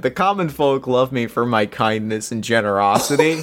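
laughing. Real, not acted. Reading the trait aloud, laughing.

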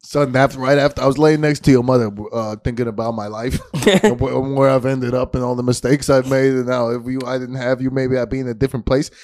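lightly voiced dad. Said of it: "Nate Dillman does, like, a dad".

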